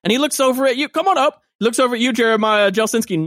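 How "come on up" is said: calling out. Acted. Mayor calling volunteers up.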